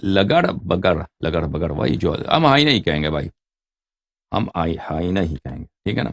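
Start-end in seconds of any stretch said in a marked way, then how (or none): 0.0-1.0 لگڑ بگڑ drawn out very slowly, syllable by syllable; slow careful naming. Shown as a demonstration. Teacher naming the hyena in Urdu, slowly spelled out. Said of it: "ہائینہ اس کو کیا بولتے ہیں؟".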